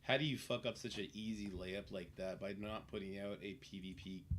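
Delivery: ordinary talk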